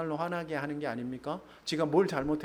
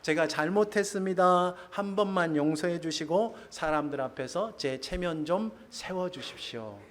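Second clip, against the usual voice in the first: pleading Saul; 2 semitones higher than usual. Retold or imitated. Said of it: "사울이 이렇게 이야기합니다".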